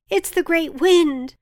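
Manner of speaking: high, loud, slow shout; frightened shout. A narrator's reading. Villager shouts at the meeting, loud fearful blame. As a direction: blame the wind at full voice. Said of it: "shouted one of the villagers".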